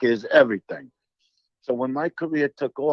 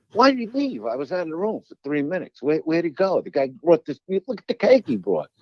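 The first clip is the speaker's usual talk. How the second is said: rising, rushed mock panic over the cake; frantic complaint; 3 semitones higher than usual. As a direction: play it as retold dismay, the middle rushed. Retold frantic complaint to wife.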